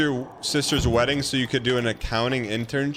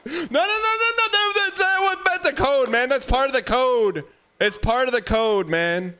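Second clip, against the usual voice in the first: laughing high protest; 10 semitones higher than usual. Real, not acted.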